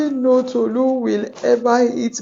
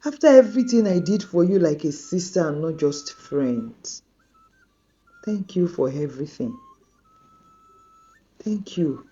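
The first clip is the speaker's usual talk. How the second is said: a hurt friend forgiving but distant; hurt and torn. Acted. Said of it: "Tolu was torn".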